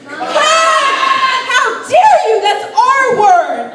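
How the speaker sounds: high, loud shout of the word Cunt; proud shout. Acted. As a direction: yell it out loud and proud, defiant. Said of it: "say loud and proud".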